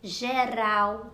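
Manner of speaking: "Geral" carefully, with a light tapped R; soft R demonstration. Shown as a demonstration. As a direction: tap the R between vowels in "Geral". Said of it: "tem o som do R brando". ("Geral" com R brando, vibrado)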